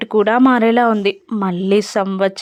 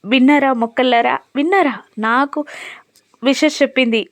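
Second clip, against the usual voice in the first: lightly voiced overjoyed little boy; childlike joy; 3 semitones higher than usual. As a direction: crow about it like an excited child. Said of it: "చిన్న పిల్లాడిలా సంతోషపడిపోతూ".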